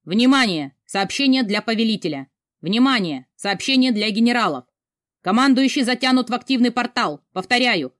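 loud, clipped alert over the radio; urgent radio announcement. Acted. Radio operator alerts the generals about the commander. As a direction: announce it like an alarm on the radio band.

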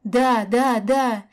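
loud, hoarse eager yes; hoarse answer. A narrator's reading. Kaska hoarsely agrees to John, close to tears. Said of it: "хрипло отозвалась Каська".

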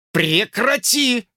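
slow, high angry order; angry command. A narrator's reading. George angrily ordering Lucy to stop. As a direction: bite the word off slowly. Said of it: "сердито приказал Джордж".

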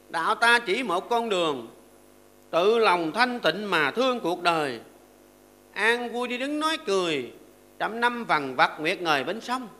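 slow, measured verse recitation; recited verse. Acted. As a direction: chant the verse slowly and evenly.

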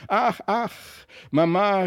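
put-on high, mildly breathless child's call; lightly acted breathless excitement. A narrator's reading. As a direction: call for mother as if just run in. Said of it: "rief Christlieb atemlos".

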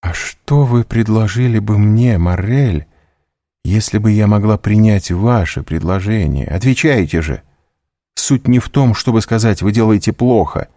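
put-on a hurt girl accusing him of selfishness; high, loud, anguished reproach; Valentina, reproachful. Valentina demands advice.

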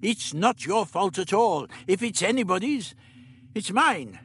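lightly voiced elderly scientist; the Doctor. A narrator's reading. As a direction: play the Doctor, matter-of-fact.

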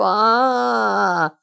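long, sustained tearful wail; drawn-out "aaah" of breaking into tears; wailing cry. Acted. Липочка bursting into tears before Роман, wailing. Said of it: "собираться в плаксивую гримаску".

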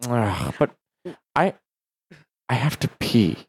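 halting, lightly voiced reluctant cab driver; imitated cab driver. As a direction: imitate a cabbie hesitating with pauses between words. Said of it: "He's like".

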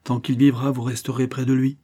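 firm and commanding, stress on vivra. Acted. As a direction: lay down the law to his mother. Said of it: "dit-il avec fermeté".

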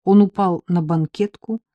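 plain reading voice

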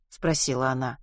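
ordinary delivery, nothing marked

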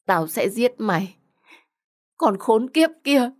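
acted anger rising to a high curse; furious threat.

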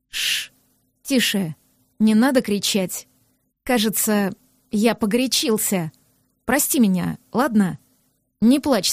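calm her down softly, apologising; soft, tender man. Acted. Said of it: "вслушиваясь в его голос. Бархатный, мягкий".

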